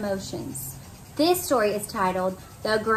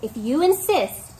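sweetly; 3 semitones higher than usual. Acted. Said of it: "answered the friendly ladybug sweetly".

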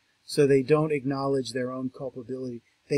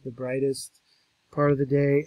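usual speaking voice

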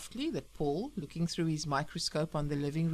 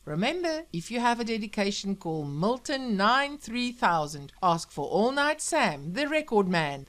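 bellowing radio announcer; 5 dB louder than usual. Acted. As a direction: sell every name like an on-air host. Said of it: "bellowed the radio".

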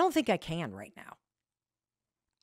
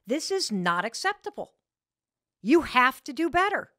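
angry husband; 4 semitones higher, 4 dB louder than usual. Retold or imitated. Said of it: "and he said".

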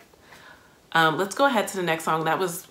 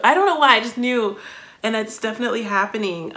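emotional; 5 semitones higher, 4 dB louder than usual. Real, not acted. Overwhelmed by the song.

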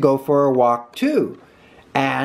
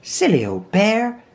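higher, fond teasing; loving; 7 semitones higher than usual. A narrator's reading. Christopher Robin seeing stuck Pooh, loving. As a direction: say it fondly, pitch lifted. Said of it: "in such a loving voice".

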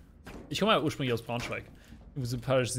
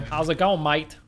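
louder attempt at a Brummy accent; 3 semitones higher, 7 dB louder, slower than usual. Shown as a demonstration. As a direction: have a loud go at a Brummy greeting. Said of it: "Do your Brummy accent".

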